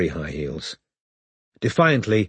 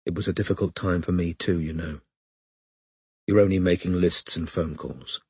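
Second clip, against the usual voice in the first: crying with rage; 3 semitones lower, 4 dB quieter than usual. A narrator's reading. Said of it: "Tears of rage and frustration".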